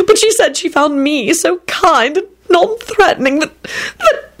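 high, cracking on the second that; voice breaking. A narrator's reading. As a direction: choke up mid-sentence. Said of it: "his voice broke".

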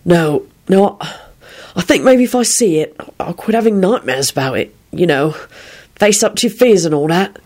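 halting, mildly mechanical delivery; mechanical recital. A narrator's reading. William telling Rosie he should face his fears, rather mechanically. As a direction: recite it with understated detachment. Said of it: "recited in a rather mechanical voice".

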